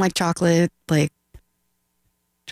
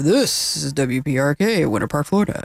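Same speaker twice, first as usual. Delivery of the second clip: radio announcer voice; 3 semitones lower than usual. Retold or imitated. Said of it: "I wouldn't be like".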